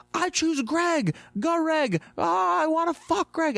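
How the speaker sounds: very high, slow, dreamy mock swoon. Utopia people swooning over Greg, in a high mock voice.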